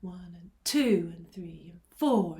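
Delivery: accent on "two" and "four", other counts lighter; backbeat count. Shown as a demonstration. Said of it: "an accent on beats two and four".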